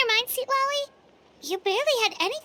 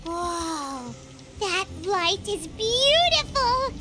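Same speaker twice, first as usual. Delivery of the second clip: hushed awe; 2 semitones lower, much slower than usual. Acted. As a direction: draw it out, marvelling. Marvelling at the light.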